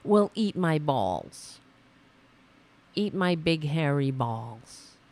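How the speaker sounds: slow, drawn-out mock insult; slowly quoted taunt, played for ridicule; mock right-winger. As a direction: lightly imitate a dim heckler's stock comeback. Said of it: "and they're like".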